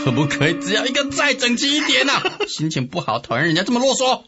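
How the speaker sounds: fast, high-pitched griping; irritable. Acted. Sun Quan annoyed by wordy generals, quick irritable complaint. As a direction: snap impatiently at the doubled reply.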